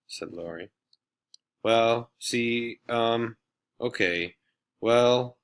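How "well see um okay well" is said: halting, flustered starts; stammering. Acted. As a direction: stumble over each word, embarrassed. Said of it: "stammered Colleen".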